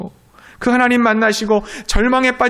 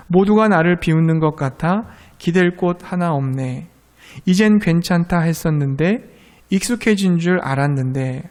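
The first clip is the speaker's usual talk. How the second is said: slow, tender recitation of lyrics; reciting song lyrics; 2 semitones lower than usual. Acted. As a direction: read the lyrics slowly, gently, like a comfort. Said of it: "이렇게 가사가 시작합니다".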